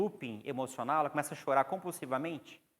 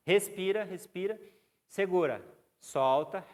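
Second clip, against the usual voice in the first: firm, higher, louder count of breath; breathing commands; 4 semitones higher, 5 dB louder, slower than usual. Shown as a demonstration. Therapist guiding a panicking client's breathing, firm commands. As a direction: coach the breath like orders.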